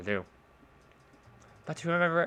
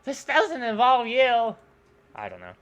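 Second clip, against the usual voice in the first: two bickering giant voices; 6 semitones higher, 8 dB louder than usual. Acted. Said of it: "how the fuck am I gonna do both voices".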